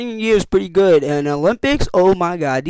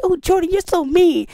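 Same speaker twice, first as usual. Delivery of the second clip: mock whiny kids; 13 semitones higher than usual. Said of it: "They're like".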